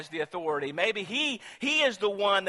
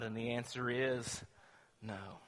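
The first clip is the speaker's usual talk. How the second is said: hushed answer; 6 semitones lower, 10 dB quieter than usual. Acted. Preacher answering his own question, hushed. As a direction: drop to a near whisper for the final no.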